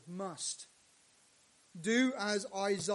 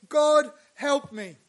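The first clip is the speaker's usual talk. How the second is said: crying out; 5 semitones higher, 13 dB louder, slower than usual. Retold or imitated. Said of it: "as Isaiah has, says".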